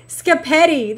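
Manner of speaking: "Scapetti" as skuh-PETTY, sk first; child's mispronunciation. Retold or imitated. Streamer savouring a kid's word, "Scapetti" mispronounced skuh-PETTY. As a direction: repeat "Scapetti" as a little kid would say spaghetti. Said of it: "instead of spaghetti".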